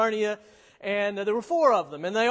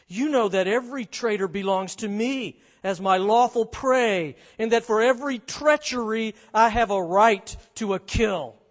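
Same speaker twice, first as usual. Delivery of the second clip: stern witch claim; 5 dB louder than usual. Acted. Witch claims her lawful prey.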